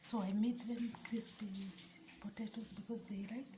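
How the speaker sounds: whispering. Real, not acted. Secret prank aside to camera.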